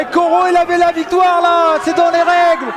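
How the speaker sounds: excited play-by-play rising; wrestling commentator. Real, not acted. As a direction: call the finish in disbelief. Excited live commentary on finish.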